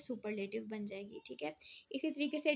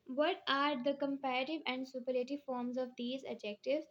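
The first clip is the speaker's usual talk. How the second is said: slow read; much slower than usual. Shown as a demonstration. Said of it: "teacher reading exercise heading aloud".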